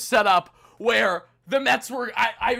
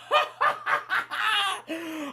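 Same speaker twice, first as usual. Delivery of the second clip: high laugh trailing away softer; giddy laugh; 9 semitones higher, 6 dB quieter than usual. Real, not acted. Fan overcome by the clinch, giddy laughing. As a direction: laugh helplessly, fading out.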